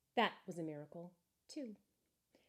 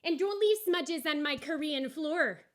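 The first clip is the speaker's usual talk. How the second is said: louder, higher, slow dismissive please; curt owner; 8 semitones higher, 9 dB louder than usual. Acted. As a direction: drag it out to send him away. Owner continues.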